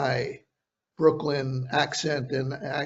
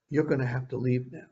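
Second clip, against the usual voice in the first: calm threat; 2 semitones lower, 5 dB quieter than usual. Retold or imitated. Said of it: "he could be so calm".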